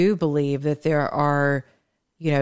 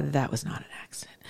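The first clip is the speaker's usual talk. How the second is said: whisper; 2 semitones lower, 11 dB quieter, faster than usual. Real, not acted. Conspiratorial aside about drone strike.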